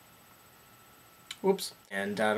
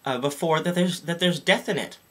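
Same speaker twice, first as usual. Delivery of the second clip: raised mock-whiny caller voice; lightly voiced fussy caller, higher; imitating the caller; 5 semitones higher than usual. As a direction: complain up high like a fussy parent. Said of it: "So he goes".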